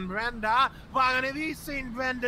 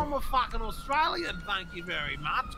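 put-on broad Aussie bogan accent; indignant Australian larrikin; silly Australian accent. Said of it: "you have a really silly accent".

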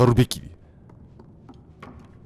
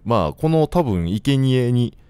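usual speaking voice

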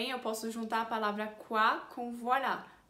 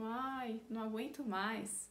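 softer, sighing weariness; fed up; 7 dB quieter, slower than usual. Shown as a demonstration. Teacher translates having had enough, wearily fed up. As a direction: sigh it out as someone who's had enough. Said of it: "tá irritado e que não aguenta mais".

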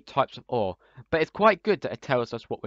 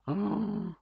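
ghast noise; 7 semitones higher, 5 dB quieter than usual. Retold or imitated. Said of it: "why am I doing a ghost impression".

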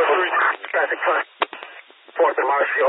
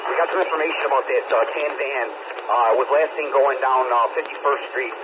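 crackly police radio transmission; talking through a handheld radio; over a radio; 3 semitones lower than usual. Real, not acted. Officer reporting over radio.

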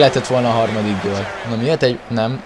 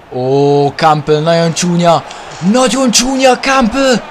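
mock scolding; 6 semitones higher, 4 dB louder, slower than usual. Real, not acted.

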